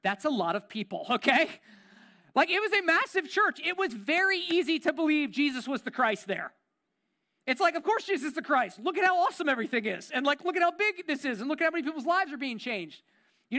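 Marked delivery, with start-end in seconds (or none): 2.3-13.0 gushing about the huge church; bubbling over with enthusiasm. Retold or imitated. Pastor recalling the huge church to the congregation, excited.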